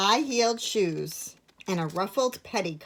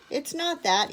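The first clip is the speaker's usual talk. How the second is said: sobbing; 8 semitones higher than usual. A narrator's reading. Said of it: "Edith sobbed".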